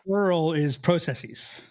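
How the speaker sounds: "processes" with a long "PRO" vowel, Canadian way; Canadian pronunciation. Shown as a demonstration. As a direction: say "processes" as "PROH-sess-eez". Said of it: "Canadian on the plural".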